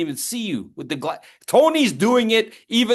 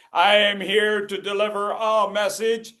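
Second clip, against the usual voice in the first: stiff forklift speaker; 3 semitones higher than usual. Pretend. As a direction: announce it like a machine. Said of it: "it's a forklift".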